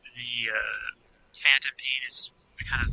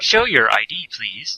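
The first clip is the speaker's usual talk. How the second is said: annoying announcement voice; 4 dB louder than usual. Retold or imitated. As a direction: imitate a bus-machine instruction, starting loud. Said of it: "a really annoying voice will say".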